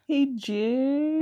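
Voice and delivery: high, long, ominous "Hey, James"; worrying "Hey, James". Retold or imitated. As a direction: say it like bad news is coming. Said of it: "that just makes me so".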